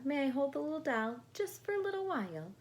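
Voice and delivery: put-on rapid eager child's request. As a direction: ask in an excited rush like a little girl. Natasha eagerly asking.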